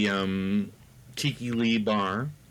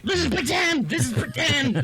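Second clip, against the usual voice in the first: retold yell. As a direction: yell it as a frantic plea, half laughing. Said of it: "I was literally like".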